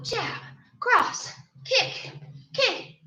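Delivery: laughing through hiccups; hiccuping while counting. Real, not acted. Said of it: "I hate the hiccups".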